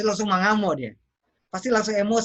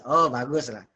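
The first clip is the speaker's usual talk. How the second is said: lower, approving "oh, bagus lah"; approving praise; 6 semitones lower than usual. Shown as a demonstration. Coach spells out the meaning of the praise, approving. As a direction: confirm that it is good.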